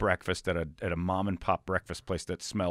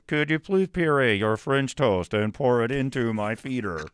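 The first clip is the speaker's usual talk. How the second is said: speech computer voice; 3 semitones higher, 5 dB louder than usual. Retold or imitated. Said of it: "Stephen A. Hawking impression".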